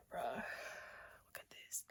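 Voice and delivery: low slow whisper, awed. Real, not acted. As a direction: breathe it out, amazed at yourself. Whispered showing off arms.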